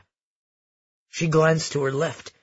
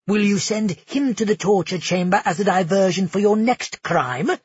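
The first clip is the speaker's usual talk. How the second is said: venomous taunt; 2 semitones higher than usual. Acted. Felix accuses Amara.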